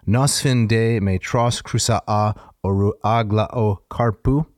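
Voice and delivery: Greek hexameter recited rhythmically; rolling dactylic verse. Shown as a demonstration. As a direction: chant the ancient Greek verse in its meter. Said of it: "they go something like this".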